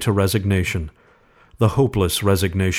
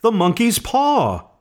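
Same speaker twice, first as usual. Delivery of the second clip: very high, slow frantic cry; wild cry; 13 semitones higher than usual. A narrator's reading. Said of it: "she cried wildly".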